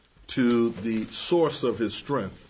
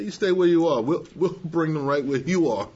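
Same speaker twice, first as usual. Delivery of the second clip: coaxing lords; 3 semitones higher than usual. Retold or imitated. Lords voiced coaxing Samson.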